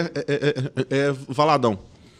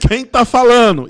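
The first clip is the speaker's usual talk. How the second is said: loud, higher mock demand; insistent phone caller; 6 semitones higher, 9 dB louder than usual. Caller asking a silent stutterer who's there, insistent. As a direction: imitate a caller who can't hear anyone.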